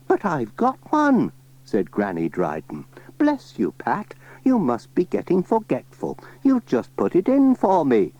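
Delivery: put-on high old lady voice; chatty old granny, pitched high. Granny Dryden asking Pat about the spade, high old voice.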